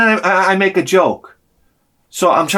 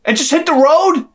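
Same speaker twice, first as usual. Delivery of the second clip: sarcastic; 10 semitones higher than usual. Retold or imitated. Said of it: "I was like".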